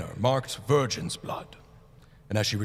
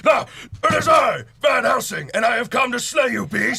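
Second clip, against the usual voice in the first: higher, louder booming hero entrance; heroic shout; 9 semitones higher, 7 dB louder than usual. Acted. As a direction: announce yourself to slay the beast. Hero bursts in.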